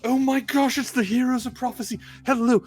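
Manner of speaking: high-pitched gushing gnome greeting; delighted little gnome. Acted. Gnome shopkeeper greeting the famous heroes, delighted. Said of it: "the little gnome, coming up and going".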